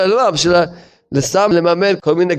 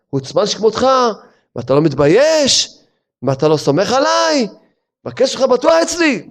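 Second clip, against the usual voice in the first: mock indignant debtor; 5 semitones higher than usual. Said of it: "הוא צועק עליו".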